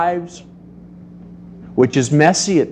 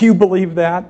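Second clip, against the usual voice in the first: mocking put-down; 4 semitones higher than usual. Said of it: "that little put down and says".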